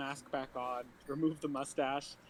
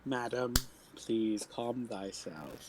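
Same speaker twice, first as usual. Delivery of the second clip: mock courtly calming; 3 semitones lower, slower than usual. Player soothes swinging old woman.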